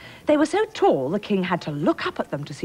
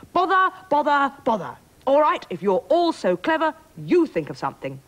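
loud, high-pitched storybook huff; exasperated tantrum; 9 semitones higher, 4 dB louder than usual. Acted. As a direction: throw a kingly tantrum, louder and higher. King's tantrum at the family.

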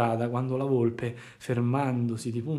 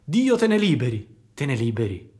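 indignant; 4 dB louder than usual. Acted. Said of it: "sdegnandosi e chiamandosi offesa".

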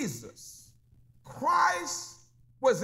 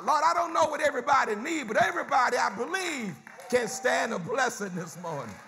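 fast preaching prayer; 2 semitones higher, faster than usual. Acted. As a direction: pour the prayer out quickly. Preacher prays fast, climbing.

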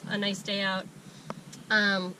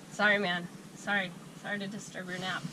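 soft apology; 6 dB quieter than usual. Real, not acted. Apologising to the sleepy dog.

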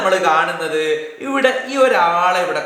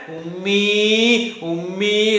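slow drawn-out bleat for mother; crying goat; much slower than usual. Shown as a demonstration. Teacher answering how the goat cries, slow goat wail. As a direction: wail it slowly like a kid goat. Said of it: "കബിഷ് എങ്ങനെയാ കരയുന്നേ?".

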